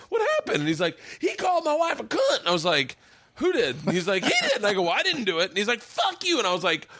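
real laughter cracking up the story; laughing while telling. Real, not acted.

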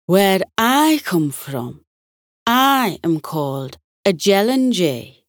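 a lightly voiced Scottish butterfly naming himself; Scottish accent. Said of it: "the one with the Scottish accent".

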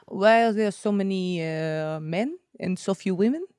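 1 bad French accent. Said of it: "It's a really bad French accent".

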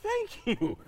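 high, soft, tentative thanks; small awkward voice, lightly acted; quietly taken aback. Child thanking mom for surprise apology, quietly taken aback. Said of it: "I was quiet for a minute".

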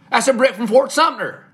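put-on high, loud, theatrical Southern accent; sudden grand Southern accent, like Tennessee Williams; Southern drawl voice. To friends under the Tribune building, bursting into a hammy Southern accent. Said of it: "What is that voice you just did?".

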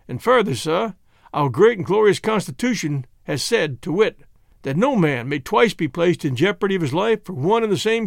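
lightly voiced Kentucky speechifier; a touch of courtroom pomp; Kentucky orator. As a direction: pronounce the law like a Southern orator. Voices Kentucky's legal answer.

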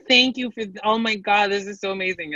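high-pitched mock gush of thanks; gushing gratitude. Contestants thanking their date for an amazing night, mock gushing. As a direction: imitate an overawed, gushing date. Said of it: "they're like".

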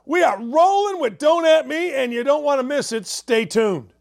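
punchy announcer sell before the break; radio break tease. Acted. Break promo.

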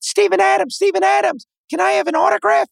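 put-on high, eager kid voice begging; squeaky fan pestering a player. Retelling kids asking the player for autographs, high eager voice.

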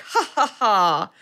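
imitated ha-ha-ha laugh; mock laugh. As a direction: spell out a slow laugh, imitating the counselors. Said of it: "scares them. And they're like".

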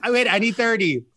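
high, laughing panic; high panicked laugh. Retold or imitated. Caught off guard by a friend, high laughing panic. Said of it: "I was like".

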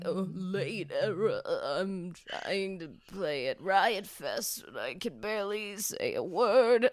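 put-on slow, mumbly old rocker; a hint of a tired old singer; old man voice. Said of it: "I'm getting old man from this".

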